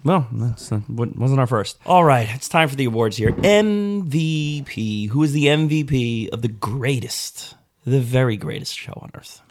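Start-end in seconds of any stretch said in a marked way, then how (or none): 3.4-5.1 announcer voice. Pretend. Awards show announcement.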